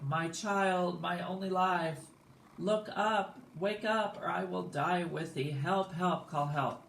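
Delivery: high, hammed-up cries of despair; mock screaming, melodramatic and easing off at the end; laying it on thick. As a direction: wail like an overacting mother. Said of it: "lays it on thick".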